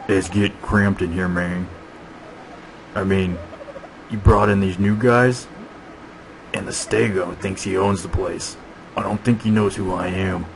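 lightly voiced grumbling dinosaur; Big Mike. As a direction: complain to the boss as a put-out big beast.

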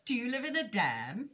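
high, curious little rabbit voice; innocent young rabbit. A narrator's reading. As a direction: keep asking with naive curiosity.

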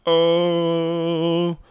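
high drawn-out cooing "oh"; white person complimenting. Acted. Mocking white people who compliment a black girl's hair, high cooing. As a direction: coo it high, in mock admiration. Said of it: "White people, when they compliment".

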